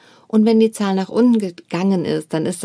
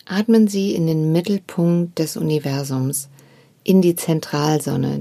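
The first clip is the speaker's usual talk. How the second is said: guided meditation; 3 semitones lower than usual. Acted. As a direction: guide the listener gently into stillness. Leads a meditation.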